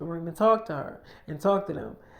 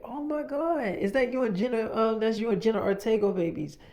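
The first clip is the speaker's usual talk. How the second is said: excited gushing; 5 semitones higher than usual. Retold or imitated. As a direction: retell an excited fan's reaction. Excited reaction to seeing babies.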